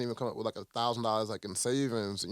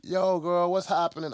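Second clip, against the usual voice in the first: Oprah greeting; 6 semitones higher than usual. Retold or imitated. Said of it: "Oprah gonna walk in and be like".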